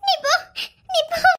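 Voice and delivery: sobbing, pushing him away; tearful dismissal; crying. Acted. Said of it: "ஏன் அழுகுற?".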